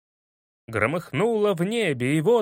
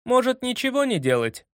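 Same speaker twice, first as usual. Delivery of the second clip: hopeful; 7 semitones higher than usual. A narrator's reading. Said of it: "с надеждой предложил".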